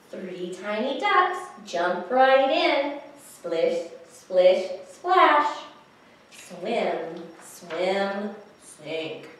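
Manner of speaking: put-on slow, measured, rhythmic reading to children; picture-book rhyme reading. A narrator's reading. Reader shares a duck rhyme with children, slow rhythmic storytelling. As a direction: read each beat deliberately, lifting the sound words.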